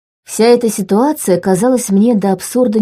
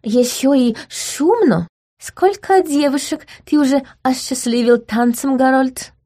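higher, slow coquettish voice; playful duchess voice; flirty lady; 6 semitones higher than usual. A narrator's reading. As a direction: tease him sweetly, pitched up. Gloria flirting with the prince.

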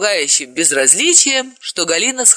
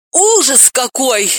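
high, slow cry of horror; wail; 8 semitones higher, 4 dB louder, slower than usual. A narrator's reading. Dalila crying out in horror, high and slow. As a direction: let it burst out of her. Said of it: "У Далилы вырвался вопль".

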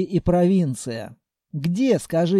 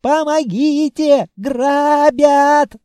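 high, loud, slow cry for help; panicked shriek; 8 semitones higher, 7 dB louder, much slower than usual. A narrator's reading. Terrified shopkeeper screaming for help at the door. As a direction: wail for help louder and louder. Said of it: "визжал всё громче".

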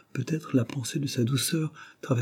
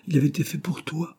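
"pour toi" gently pressed, in a higher voice; pointed emphasis on "pour toi"; stress on last words; 7 semitones higher than usual. A narrator's reading. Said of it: "Jane ne put s'empêcher d'appuyer sur les derniers mots".

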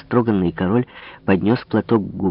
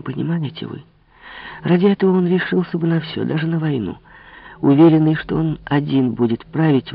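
put-on higher, insistent young woman's voice; Marie, urgent persuasion; 4 semitones higher than usual. Marie urges the king to defy the cardinal, insistent. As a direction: press him eagerly, lightly voiced.

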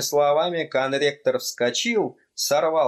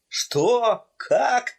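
sharp high startled what; startled gasp of a question; shocked disbelief; 11 semitones higher than usual. Acted. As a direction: jolt up in disbelief.

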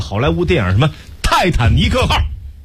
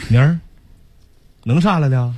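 rural dialect Rose; 2 semitones lower than usual. Acted. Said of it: "那么像苞米地里碰见的呀".

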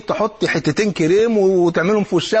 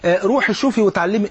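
mocking put-down; 3 semitones higher than usual. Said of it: "اوعى تقول لها".

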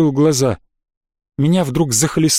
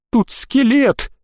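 high, slow strained announcement; hoarse; 8 semitones higher, much slower than usual. A narrator's reading. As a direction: force out the scary news slowly. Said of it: "хрипло сообщил он". (хрипло, с испугом)

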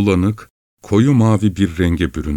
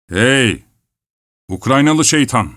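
roaring; 4 semitones higher than usual. Acted. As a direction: bellow at the shepherd. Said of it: "diye kükredi". (hafifçe canlandırılmış kükreme)

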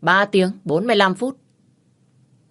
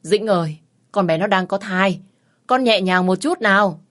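calling through the door; 3 semitones higher, 6 dB louder than usual. Acted. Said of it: "nói vọng vào".

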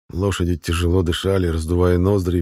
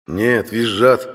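knowing; 4 semitones higher, 5 dB louder, much slower than usual. Acted. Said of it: "сознанием дела поясняет брат".

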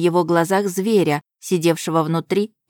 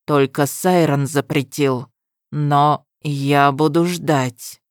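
menacing; 3 semitones lower, slower than usual. Acted. Destin threatens Ahmar.

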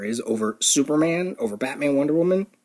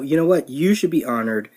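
ordinary talk

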